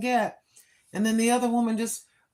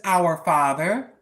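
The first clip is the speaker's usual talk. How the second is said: quoting the prayer; 6 semitones lower, slower than usual. Retold or imitated. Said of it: "the prayer says".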